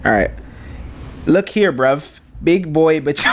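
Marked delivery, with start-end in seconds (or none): 1.2-3.0 attempted British street accent; amateur British accent, about to crack up. Shown as a demonstration. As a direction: have a go at British slang in a British accent. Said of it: "we're gonna do British".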